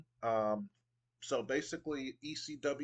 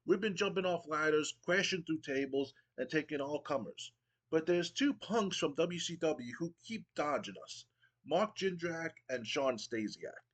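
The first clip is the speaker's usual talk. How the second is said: lightly voiced wrestler cutting a promo, pitched higher; hyped Matt Hardy; 4 semitones higher than usual. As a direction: brag to the crowd and call out rivals. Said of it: "He goes".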